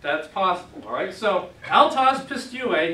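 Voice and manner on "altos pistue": slow, loud teaching read; drilling a Greek phrase for students. Shown as a demonstration. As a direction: spell out the Greek slowly. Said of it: "he believes".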